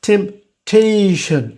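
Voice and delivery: "টেম্পটেশন" slowly, TAY stretched with a puff on T; stressed aspirated syllable. Shown as a demonstration. Teacher giving a mid-word example, "টেম্পটেশন" with long aspirated TAY. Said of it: "এই যে টেম্পটেশন হবে".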